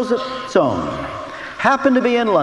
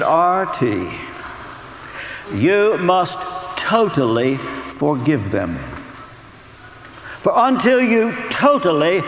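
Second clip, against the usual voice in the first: a slow, solemn hint of a Romanian accent; 3 semitones lower, slower than usual. A friend from Romania gently urging forgiveness, in a hint of a Romanian accent. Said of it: "I can hear him now in his Romanian accent".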